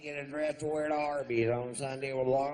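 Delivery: high, loud redneck woman's voice; mock redneck woman. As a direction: play a trashy loudmouth woman at the show. Imitating the redneck chick's talk.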